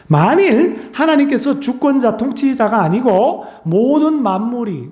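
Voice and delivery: slow, high sermon emphasis; high-pitched preaching. Acted. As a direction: stretch out the words like a preacher at full force.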